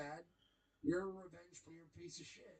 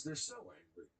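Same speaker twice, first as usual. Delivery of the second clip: lower, mopey mock reading; 9 semitones lower than usual. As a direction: parody him reading chat. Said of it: "he reads it in this voice".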